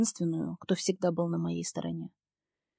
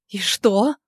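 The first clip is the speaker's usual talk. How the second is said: насмешливо; 2 semitones higher, 9 dB louder than usual. Acted. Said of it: "вопросительно выгибаю бровь".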